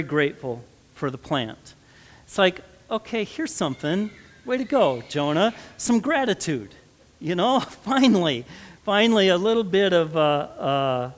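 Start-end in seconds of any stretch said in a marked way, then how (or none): 2.3-9.9 mock cheer, voice jumping higher; sarcastic praise. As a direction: tease him with a sarcastic "way to go". Mocking Jonah's rare gratitude.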